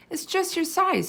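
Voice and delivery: high, slow, delighted; delighted girl. A narrator's reading. Girl delighted showing the hamster the dollhouse. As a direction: coo it with wonder.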